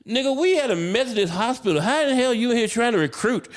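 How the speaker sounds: high-pitched retold outrage; worked-up, comic indignant rant; losing it. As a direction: challenge him in exasperated disbelief. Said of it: "I have lost my shit".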